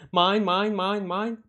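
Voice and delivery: seagull voice. Retold or imitated. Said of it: "In the seagull voice".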